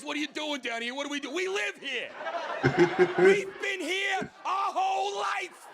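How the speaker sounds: high, shouted mouse protesting its home; indignant mouse. Acted. Mouse telling the man they live here, shouting high. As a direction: defend your home, loud and high. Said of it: "this guy's always".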